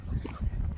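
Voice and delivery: short breathless cough. Real, not acted. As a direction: cough while walking fast. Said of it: "I'm getting out of breath today".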